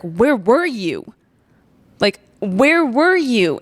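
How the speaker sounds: slow, aching plea to God; a hint of tearful pleading; pleading prayer. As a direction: ask it slowly, hurt and pleading.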